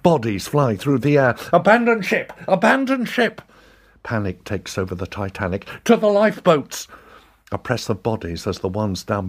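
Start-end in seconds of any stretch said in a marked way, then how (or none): 1.5-3.4 high urgent shout; shouting abandon ship. Acted. Crew shouting on sinking ship. 5.9-6.9 high urgent shout. Acted. Crew shouting orders.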